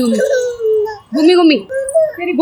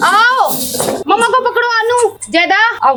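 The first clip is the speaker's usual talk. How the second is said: higher, sing-song teasing; playful taunting; 6 semitones higher than usual. Real, not acted. Chase game, taunting the kids.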